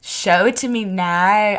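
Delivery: slow, put-on Australian accent. Shown as a demonstration. Co-host performing on request, in a slow Australian accent. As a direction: try out a line in an Australian accent. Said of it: "Do your Australian".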